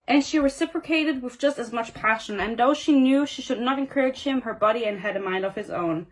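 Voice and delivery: measured reading-aloud voice; story narration. A narrator's reading. Reader sharing the kiss scene aloud, story narration. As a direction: read it out as a novel passage.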